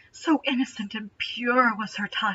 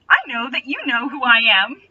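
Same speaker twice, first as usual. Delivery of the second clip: gleeful exclaim; 3 dB louder than usual. Acted. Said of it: "three exclamation points".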